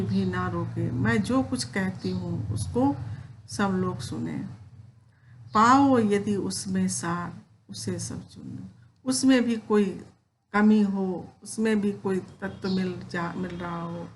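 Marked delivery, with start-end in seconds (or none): 5.5-8.7 poem recitation. Acted. Teacher reciting Kaikeyi's plea to Ram, measured poem recitation. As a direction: recite the verse with feeling, slightly raised.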